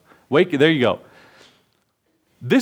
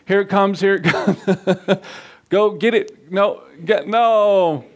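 laughing while calling out; cheering on the clip through laughter; 3 semitones higher, slower than usual. Real, not acted. Laughing at the game show.

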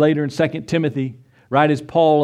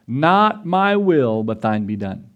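solemn surrender; slower than usual. Retold or imitated. Jesus's prayer quoted slowly.

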